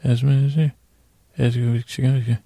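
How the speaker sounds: slurred mumble, barely understandable; Mumble Bear. Acted. Bear mumbling thanks to a patron, unintelligibly. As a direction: mumble so the words blur. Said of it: "I don't know if that was understandable".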